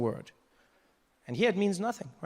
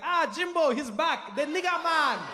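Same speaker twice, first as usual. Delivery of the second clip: higher, cheerful put-on African voice; mock South African greeting; 10 semitones higher, slower than usual. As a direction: greet the visitor like an old friend. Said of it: "They'll just be like".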